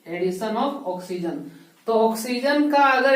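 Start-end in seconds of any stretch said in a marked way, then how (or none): 0.1-1.4 slow, deliberate, each word laid out; dictating a key term slowly; slow teaching emphasis. Shown as a demonstration. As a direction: spell it out slowly for the class. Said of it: "या एडिशन भी बोल सकते हैं हम लोग".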